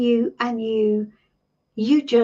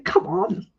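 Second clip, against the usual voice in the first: whispered nudge; 4 semitones lower than usual. Pretend. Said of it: "He's probably going".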